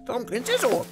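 put-on high, girlish voice of a confused old woman; childlike old woman. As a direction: sing it out like a happy little girl. Shushu asks, girlish.

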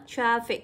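"Traffic" stressed on TRAF; nhấn âm một. Shown as a demonstration. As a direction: punch the first syllable of "Traffic". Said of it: "nhấn vào một". (đọc "Traffic" nhấn vào "Traf")

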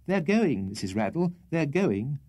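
high-pitched, harassed placating; miserable. A narrator's reading. Lodger promising his landlady they're going, miserable. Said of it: "said the miserable Bob".

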